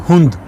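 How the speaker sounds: हुंद with a short u before nd; short Swedish u. Shown as a demonstration. Teacher demonstrates short u in hund to students. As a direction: clip the u in हुंद. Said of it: "और जो short है".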